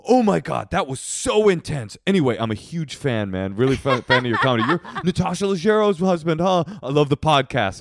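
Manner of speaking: high, eager fan gushing. Retold or imitated. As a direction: play the starstruck fan, breathless. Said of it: "this guy walks over and he goes".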